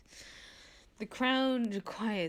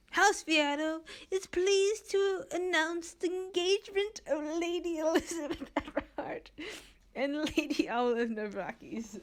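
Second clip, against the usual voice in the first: high formal announcement; announcing voice; 10 semitones higher, 4 dB louder than usual. Acted. Renza announces the engagement in a high announcing voice. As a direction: proclaim it to the party. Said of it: "I can't even do her voice right now".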